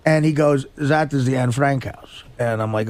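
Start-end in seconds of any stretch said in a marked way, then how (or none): 0.8-2.2 put-on low, slow German accent. German guide pointing out a house, low slow German accent. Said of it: "that German accent is just really".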